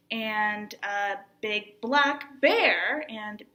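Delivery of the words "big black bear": slow "big black bear" with "bear" swooping up; stress on BEAR. Shown as a demonstration. Teacher separating similar phrases, stress on "bear". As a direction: stretch and lift "bear" at the end. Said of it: "saying those in different ways".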